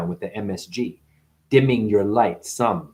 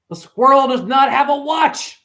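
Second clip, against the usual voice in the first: high squeaky voice; squirrel voice; 14 semitones higher, 5 dB louder than usual. Acted. Telling the crowd about the squirrel, high and squeaky. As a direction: keep the squeaky squirrel pitch.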